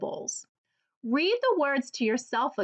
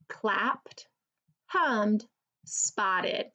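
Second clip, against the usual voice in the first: slow listing; 2 semitones lower, much slower than usual. Shown as a demonstration. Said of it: "What's the same about all three".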